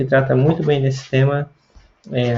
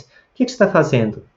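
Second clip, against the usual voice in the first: everyday Brazilian Portuguese question melody; Brazilian accent; 3 semitones higher than usual. Shown as a demonstration. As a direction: ask it the Brazilian way. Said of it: "na nossa seria mais". (pergunta com sotaque brasileiro)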